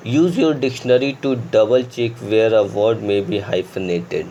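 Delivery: very slow dictation of the rule; slow rule reading. Shown as a demonstration. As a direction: read the rule aloud word by word. Reads grammar rule slowly. (धीमी गति से नियम पढ़ना)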